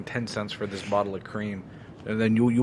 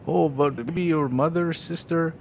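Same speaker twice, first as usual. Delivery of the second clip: higher, slow, broken English sales pitch; imitating a pushy mall seller; 6 semitones higher, slower than usual. To a shopper, a mild imitation of the pushy seller. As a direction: lightly mimic the seller coaxing.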